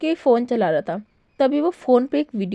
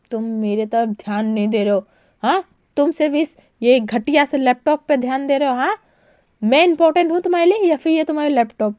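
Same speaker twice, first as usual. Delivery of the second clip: higher, louder sulky demand; pouting complaint; 3 semitones higher, 3 dB louder than usual. Acted. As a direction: whine at him for ignoring you. Wang Ji sulking at partner.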